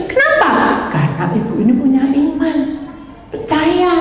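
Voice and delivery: high, fervent preacher's appeal; preaching at full force. Acted. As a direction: drive the point home to the congregation. Preacher's raised exhortation. (berkhotbah dengan semangat tinggi)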